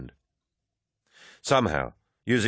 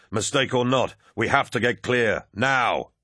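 raised, higher-pitched command; urgent yell; 4 semitones higher than usual. A narrator's reading. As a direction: yell an order under fire. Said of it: "Loken yelled".

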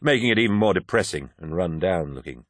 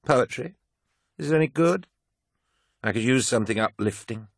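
put-on drunk woman; 6 semitones higher than usual.

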